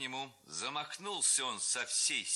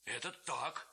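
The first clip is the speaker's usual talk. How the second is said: agreeing chorus; 7 semitones higher, slower than usual. A narrator's reading. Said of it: "закричали в один голос все хлопцы".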